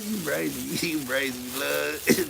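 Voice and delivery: laughing mock. Mocking a chatter's slang, laughing.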